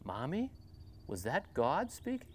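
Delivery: little whisper. Acted. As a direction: whisper it in the dark bunk. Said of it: "Suddenly a little whisper".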